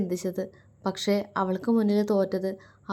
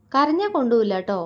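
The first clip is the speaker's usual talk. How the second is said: higher, louder mock stern warning; mock serious; 4 semitones higher, 4 dB louder, faster than usual. Shiva warning Mitra not to cry, mock stern. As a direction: tease her with a pretend stern tone. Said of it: "അവൻ ഗൗരവത്തോടെ പറഞ്ഞു".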